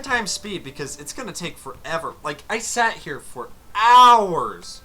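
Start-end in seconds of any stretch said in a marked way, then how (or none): 2.2-4.8 exasperated drag. Real, not acted. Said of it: "took two hours of my fucking life".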